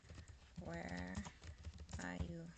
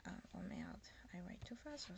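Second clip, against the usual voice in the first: whispered curse; 8 dB quieter, faster than usual. Real, not acted. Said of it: "unvoiced whisper".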